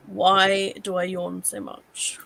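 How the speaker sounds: slow, evenly spoken search question; voice search query. Real, not acted. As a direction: dictate it slowly to a voice assistant. Dictating a search to voice assistant.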